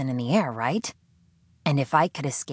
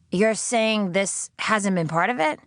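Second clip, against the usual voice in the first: slow, higher, disbelieving; incredulous; 6 semitones higher than usual. Acted. Sydney challenging her captor, slow higher disbelief. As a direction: challenge the claim.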